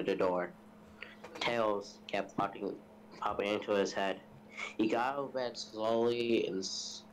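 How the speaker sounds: evenly paced storytelling read; story narration. A narrator's reading. Telling friends a scary story, in narration voice.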